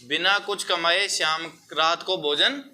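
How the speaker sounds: measured phrases with long pauses for copying; classroom dictation. Real, not acted. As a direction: dictate the answer piece by piece.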